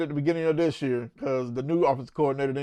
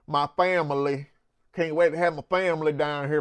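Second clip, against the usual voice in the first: Brian Kelly's fake Southern accent. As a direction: mimic a badly faked Southern accent. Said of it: "you ain't got no Southern accent".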